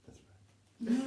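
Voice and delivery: high, loud reply; quoting him. Retold or imitated. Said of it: "he went".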